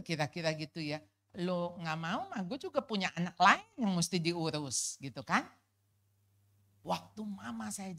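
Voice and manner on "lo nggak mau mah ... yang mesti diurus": exasperated mother. Retold or imitated. Mother voiced, fed up.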